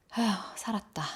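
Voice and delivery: soft sigh of relief; relieved sigh. Acted. Boy hiding after a chase, a softly relieved sigh. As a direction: breathe out, thinking you got away. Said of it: "한숨 돌리면서".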